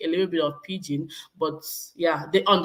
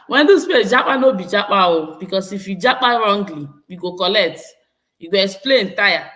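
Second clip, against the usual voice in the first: emphatic, louder Pidgin warning; 6 dB louder than usual. Real, not acted. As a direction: drive the warning home, loud.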